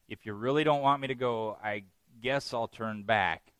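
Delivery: reluctant, grudging offer that slows at the end; half-hearted repentance. Retold or imitated. Balaam to God, half-heartedly repenting. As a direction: give in without meaning it, dragging the last words. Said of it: "when our repentance is only half-hearted".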